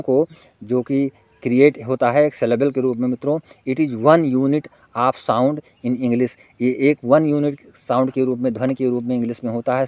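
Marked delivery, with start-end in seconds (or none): 3.7-6.4 very slow, word by word; deliberate dictating read; slow dictation. Shown as a demonstration. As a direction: spell the question out slowly for students to copy. Dictating definition to students.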